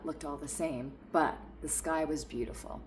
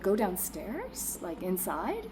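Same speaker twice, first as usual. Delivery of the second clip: clarifying; 2 semitones higher, slower than usual. Retold or imitated. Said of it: "That's what I said".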